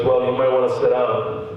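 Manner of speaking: low-pitched doctor voice; retold doctor. Doctor preparing patient for a diagnosis, low doctor voice. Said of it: "He goes".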